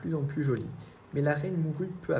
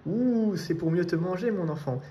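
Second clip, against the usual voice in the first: menacing wolf; 4 semitones higher than usual. A narrator's reading. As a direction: pounce on the words like a hungry wolf. Le loup va la dévorer. (loup affamé qui bondit sur sa proie)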